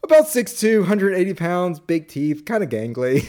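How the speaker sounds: imitated description, high then sinking; Fletcher. Fletcher describing himself to the judge, imitated. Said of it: "He describes it".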